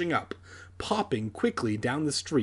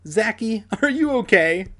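high-pitched voice for a concerned friend; lifted character voice, louder at the end; worried friend; 9 semitones higher, 6 dB louder than usual. A narrator's reading. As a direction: ask it high, rising in concern. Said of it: "Alex asked".

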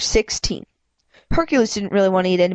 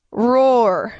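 pitiful roar; 3 semitones higher than usual. Acted. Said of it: "It's a really pitiful roar".

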